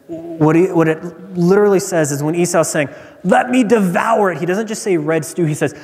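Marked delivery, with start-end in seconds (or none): 3.2-4.4 higher, urgent acted demand; raving with hunger. Esau driven by desire for food, raving. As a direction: demand it like someone starving. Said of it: "a man who is almost raving".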